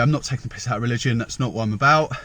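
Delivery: slightly puffed after walking; out of breath. Real, not acted. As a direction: talk while catching your breath. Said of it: "a bit out of breath".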